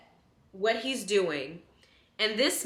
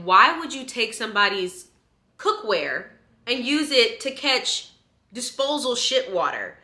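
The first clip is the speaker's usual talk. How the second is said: retold anger; 3 semitones higher than usual. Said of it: "I was so mad".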